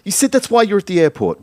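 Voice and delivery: incredulous. Acted. Kyle doubts Laura's excuse.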